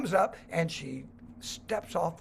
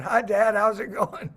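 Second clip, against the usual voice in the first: daughter's message; 3 semitones higher, 7 dB louder than usual. Retold or imitated. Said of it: "Rachel's going".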